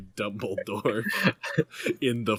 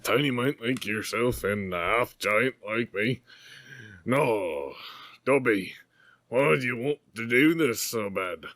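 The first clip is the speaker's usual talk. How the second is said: lightly voiced gruff half-giant; a hint of a big gentle giant; Hagrid voice. Hagrid voice held.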